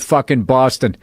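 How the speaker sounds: slow, deadpan official recital of a curse; bailiff reading. Retold or imitated. Bailiff quoting the drunk defendant in court, deadpan. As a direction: read the swearing like a court record. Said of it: "That's not the way I said it".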